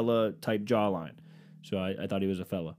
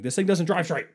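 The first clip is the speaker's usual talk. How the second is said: high, loud retold complaint; exasperated mock yell; 8 semitones higher, 5 dB louder than usual. Man wrestling a wobbly cart, exasperated mock yell. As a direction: burst out in mock frustration.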